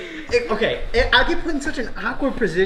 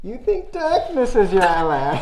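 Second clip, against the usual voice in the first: Bane impression; 5 semitones higher than usual. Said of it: "this is what he says to Batman".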